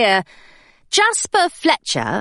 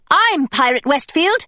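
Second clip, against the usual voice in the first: put-on young Hilary; 4 semitones higher than usual. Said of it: "she said".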